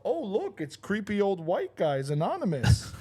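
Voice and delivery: high, drawn-out teasing call; performed mock discovery; mocking taunt. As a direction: needle strangers with a sing-out joke. Heckling strangers as a bit.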